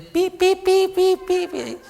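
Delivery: high squeaky mock trumpet peeps; comic high pi pi of a broken trumpet; feeble trumpet toots. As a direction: toot like a weak, useless bugle. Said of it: "si el clarín no da un bélico acento, sino que".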